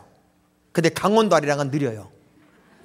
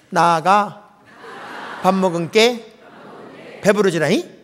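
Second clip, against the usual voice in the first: Jeolla dialect; slower than usual. Shown as a demonstration. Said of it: "저를 따라해보세요".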